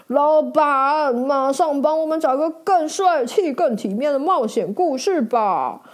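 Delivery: fussy hero complaining to the boss; frowning, disgusted knight. Acted. Knight grossed out by bird droppings, demanding a wash. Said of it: "骑士皱着眉头说".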